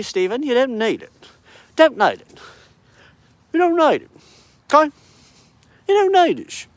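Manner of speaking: mock scolding. Friends scolding Steve.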